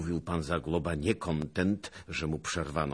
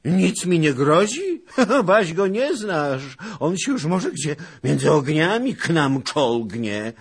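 fearful; 13 semitones higher, 11 dB louder than usual. A narrator's reading. Zagłoba terrified of Bohun.

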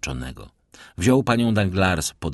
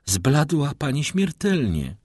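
high, slow, drawn-out alarm; worried outcry without shouting; alarmed exclamation; 9 semitones higher than usual. A narrator's reading. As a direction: exclaim in concern, pitch raised. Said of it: "zawołał Debray".

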